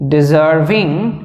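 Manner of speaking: very slow, each word drawn out; slow dictation. Shown as a demonstration. Teacher dictating to students, very slow and spaced. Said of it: "dictating the word".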